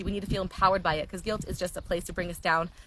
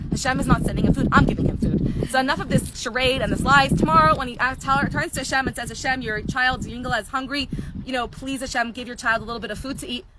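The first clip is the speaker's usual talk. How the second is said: higher-pitched storyteller's mock exasperation; retold protest, pitched up; acted indignation; 3 semitones higher, 4 dB louder than usual. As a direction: act out a fed-up attendant's mild rant. Acts out fed-up attendant's rant.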